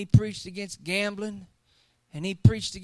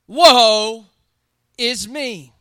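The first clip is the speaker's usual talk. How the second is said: country friend; 8 dB louder, much slower than usual. Retold or imitated. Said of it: "talks like this".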